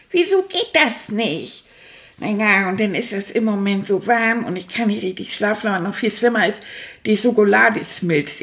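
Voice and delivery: put-on chatty, cheeky puppet rat rambling to the kids; stuffed rat puppet. Stuffed rat Manfred grumbles to his young viewers, in a puppet voice. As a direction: play the grumpy little rat who loves to talk.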